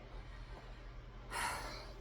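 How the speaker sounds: long, soft exhaled sigh. Real, not acted. Tarot reader before naming a blockage, long soft sigh. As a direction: let out a long quiet breath.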